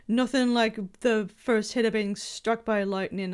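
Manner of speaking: a faint, half-hearted Irish lilt on the quote; barely-there Irish accent, self-consciously; bad Irish accent. Quoting the game character in a weak Irish accent. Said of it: "I can't do a good Irish accent".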